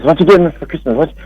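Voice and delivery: put-on eager, childlike questioning; excited kid at Christmas. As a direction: ask like a kid begging for presents. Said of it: "like this kid at Christmas".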